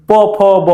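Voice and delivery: প, ফ, ব sounded singly with both lips; lip consonants. Shown as a demonstration. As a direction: demonstrate প, ফ, ব, closing both lips. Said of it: "এই যে দুইটা ঠোঁট". (প, ফ, ব দুই ঠোঁট মিলিয়ে উচ্চারণ)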